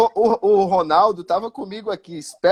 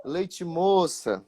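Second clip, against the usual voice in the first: soft, slowly drawn-out taunt; quiet heckle; 5 dB quieter, much slower than usual. Retold or imitated. Drunk fan heckles the goalkeeper from behind the goal, quietly. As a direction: needle him softly, stretching each word. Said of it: "começou bem baixinho".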